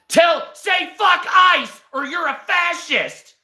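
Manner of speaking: high-pitched hectoring imitation; mock screamed demand. Streamer imitating people pushing politics on him, high mock scream. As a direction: screech it like a mock fanatic.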